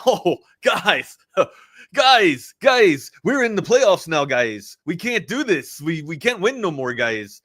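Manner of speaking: mock Toronto players in a bad Canadian accent; awful Canadian accent. Host mocking the Leafs' playoff collapse in an awful Canadian accent. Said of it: "my awful Canadian accent right there".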